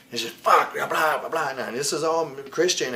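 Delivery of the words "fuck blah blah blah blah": mock rant. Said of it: "ranting and raving back there".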